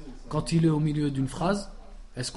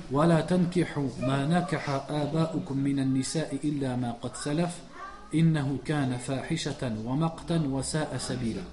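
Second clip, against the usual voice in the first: verset coranique récité vite; réciter le verset d'un trait; recitation; faster than usual. Acted. (récitation rapide du verset)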